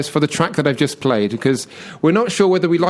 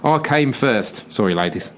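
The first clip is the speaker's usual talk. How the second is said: put-on Aussie accent. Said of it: "I'm an Aussie".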